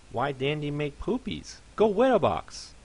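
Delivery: a tiny pony rising to a squeal; squeaky fluffy pony. Acted. Fluffy character voice.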